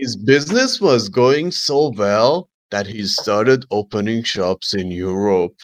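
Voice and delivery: slow mock narration; drawn-out storytelling impression; stupid narrator voice. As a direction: lightly parody a cheesy story narrator. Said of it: "That is a really good".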